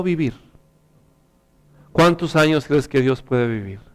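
lightly voiced father, mostly low; gentle father. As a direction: speak tenderly as a father to his son.

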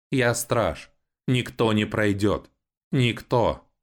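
a rusty sentry reciting its orders; creaky robot guard. A narrator's reading. Guard robot warns the siblings about the savages, high and creaking.

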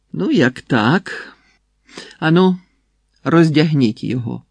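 flaring anger. A narrator's reading. Enraged prince ordering the monk stripped, flaring anger. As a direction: flare up and order him stripped. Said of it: "розпалився, розлютувався".

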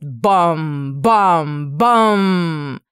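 loud bam bam bam; imitated bangs. Narrator sounding ladle blows on the dish, loud bangs.

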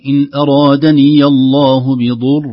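"بضر" with a full, heavy ra on the pause. Shown as a demonstration. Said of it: "فخمت الراء". (تفخيم الراء وقفًا)

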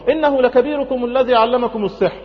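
high-pitched accusation, mildly hammed-up; accusing Pharaoh. Pharaoh accuses the magicians over Moses, mock indignation. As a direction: throw the charge at them.

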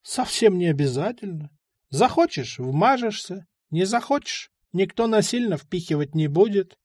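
lightly voiced old man, casual and reassuring; easygoing old man.

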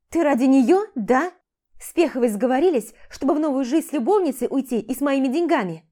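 loud, bitter questioning; angry accusation. Acted. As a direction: throw the accusation at him. Wife accuses husband of cheating. (громкое горькое обвинение)

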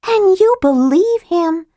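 high, slow scornful disbelief; scoffing. A narrator's reading. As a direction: scoff it at him. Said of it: "Tika scoffed".

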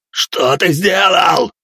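high, slow, loud yell; bellowing. Acted. Leader yells at the hero, slow and loud. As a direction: drag out the panicked question. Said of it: "орал он".

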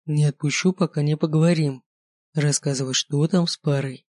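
composed, unhurried calm. Acted. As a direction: hold her gently and speak evenly. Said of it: "спокойно сказал он".

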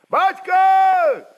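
a high, loud call from far across the battle; shouting out. Acted. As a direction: Cossacks call their leader over the din. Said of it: "закричали от казаков". (казаки зовут атамана: громкий высокий крик)

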